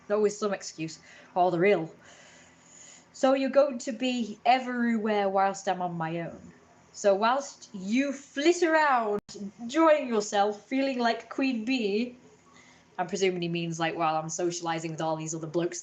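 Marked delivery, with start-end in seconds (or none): 3.1-12.2 mocking sneer. Mocking the man's message.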